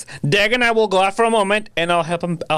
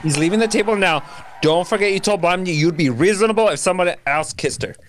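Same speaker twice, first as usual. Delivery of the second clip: shouting. Acted. Restraining Dagwood, hurried pleading.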